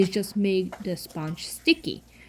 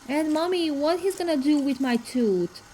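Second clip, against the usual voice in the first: put-on child's question; 8 semitones higher than usual. Son's question voiced.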